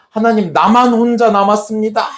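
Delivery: high, plaintive acted lament; pleading complaint. Elijah complaining he alone is left, acted lament. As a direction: pour out a grievance to God. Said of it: "막 하소연한 거야".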